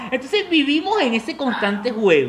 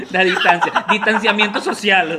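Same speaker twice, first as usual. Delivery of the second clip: laughing through the punchline; amused punchline; 3 dB louder than usual. Real, not acted. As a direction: chuckle the words out.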